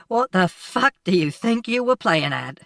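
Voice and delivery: put-on a shaken man berating the boy he just saved; angry scolding. A narrator's reading. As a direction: tear into the boy. Man berates boy after rescue.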